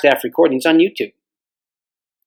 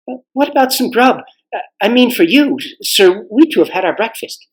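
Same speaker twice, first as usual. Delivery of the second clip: put-on higher, casual boy's voice; young boy; 6 semitones higher than usual. Boy offers the king some grub, higher cheerful voice. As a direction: offer food like a cheerful schoolboy.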